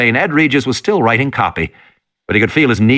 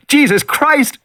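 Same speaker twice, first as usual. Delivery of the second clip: frightened curse; slower than usual. Acted. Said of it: "he said again".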